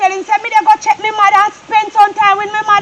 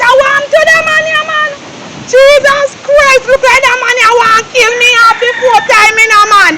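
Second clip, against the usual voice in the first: distraught lament; 3 semitones higher than usual. Acted. Distraught man lamenting aloud.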